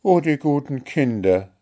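heartfelt storybook outburst; moved exclamation. A narrator's reading. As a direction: exclaim fondly, stirred by what you heard. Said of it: "rief Märchen bewegt aus".

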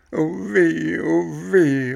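high loud wail of oh weh; crying out. A narrator's reading. Bengele tugging his donkey ears, loud high wail. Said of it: "rief Bengele".

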